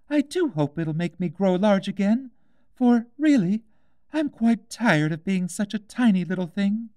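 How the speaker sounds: put-on high, light girl's voice, wistful; a young girl missing her cat; Alice, wistful. A narrator's reading. Alice to herself.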